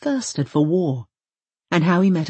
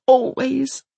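defiant; 7 semitones higher, 4 dB louder than usual. Acted. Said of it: "with unshakable defiance".

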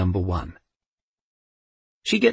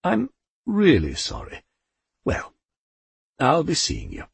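apologetic; 6 semitones higher than usual. A narrator's reading. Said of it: "sounded genuinely apologetic".

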